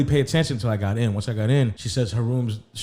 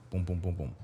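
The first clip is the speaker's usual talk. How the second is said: low, soft knock sounds; four understated spoken knocks; imitated knocking; 5 semitones lower, 9 dB quieter than usual. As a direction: mimic knuckles on a door, quietly. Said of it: "and I'm knocking".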